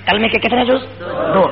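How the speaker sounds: forceful, rhythmic sermon delivery; emphatic preaching. Real, not acted. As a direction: drive each repeated phrase home to the congregation. Preacher drills and declaims creed. (پُرزور خطیبانہ انداز میں تقریر)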